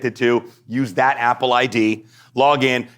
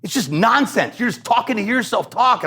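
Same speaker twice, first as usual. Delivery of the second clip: dismissive practitioner; 11 semitones higher than usual. Retold or imitated. Practitioner telling him he talks to hear himself, dismissive. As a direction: shush him like a lightly voiced stern teacher. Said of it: "she goes".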